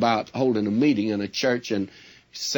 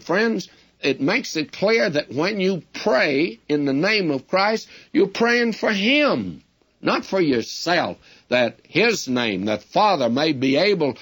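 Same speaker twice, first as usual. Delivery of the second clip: rising preaching appeal; 6 semitones higher than usual. Real, not acted.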